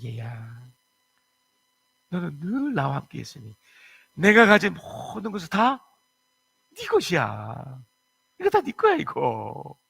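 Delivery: gentle father coaxing, swelling with emphasis; tender father. Acted. Father soothing his angry eldest son, tender. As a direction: reassure the hurt son everything is his.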